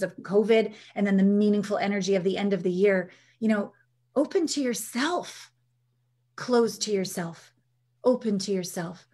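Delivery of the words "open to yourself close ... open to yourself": slow guiding cue. Shown as a demonstration. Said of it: "guiding exercise".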